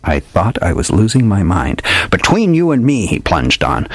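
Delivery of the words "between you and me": lightly voiced old detective, a bit higher, grand and theatrical; hardboiled old detective. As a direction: play the old gumshoe spinning a dramatic yarn. Old detective tells his tale.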